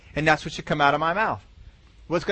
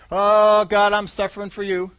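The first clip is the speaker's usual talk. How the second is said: mock suffering wail; 2 semitones higher, 4 dB louder than usual. Mocking a complaining believer.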